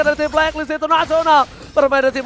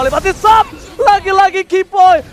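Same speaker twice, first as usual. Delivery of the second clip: fighting game announcer; 5 semitones higher, 6 dB louder than usual. Real, not acted. Caster hyping a key play.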